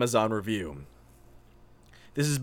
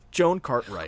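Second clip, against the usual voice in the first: high, crying pity for Joan; mock weeping; 6 semitones higher, slower than usual. Real, not acted. Friends mock-sobbing for an elderly reviewer, high and tearful. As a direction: whimper her name in mock grief.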